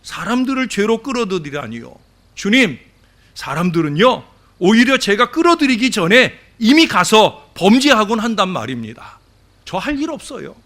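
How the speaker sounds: lightly acted devil complaining to God; insolent grumbling. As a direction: protest to your master with mock impudence. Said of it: "아주 오만불손한 태도로 중얼거립니다".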